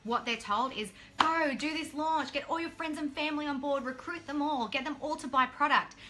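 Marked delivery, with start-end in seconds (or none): 1.2-6.0 higher-pitched mock launch pep talk; retold hype. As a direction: imitate someone urging a newcomer on, pitched up. Retold pushy launch instructions.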